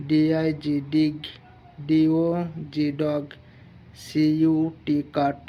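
steady, deliberate classroom reading; phonics example drill. Shown as a demonstration. Teacher giving students example words in a drill. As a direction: spell each word, then say it, one by one. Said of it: "vowel এর আগে একটি ও পরে একটি consonant বসিয়ে উচ্চারণ".

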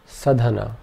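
Sadhana with three short a sounds; Sadhana, clipped syllables; all vowels short. Shown as a demonstration. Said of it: "All three vowel sounds in this are short".

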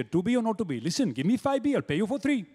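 mock Indian accent reciting Shakespeare; lilting Indian accent, bargaining. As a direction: play the Bard as a haggling Indian trader. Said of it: "Why can't there be an Indian Shakespeare?".

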